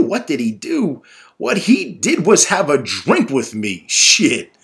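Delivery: teasing. Acted. Father mocks, teasing.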